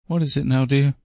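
a touch weary, trying to stay kind; suppressed impatience. A narrator's reading. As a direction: ask it with impatience held back. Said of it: "keep a note of impatience out".

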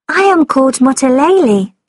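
put-on high, polite little girl; young girl voice. A narrator's reading. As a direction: speak as a shy polite girl. Girl character voice.

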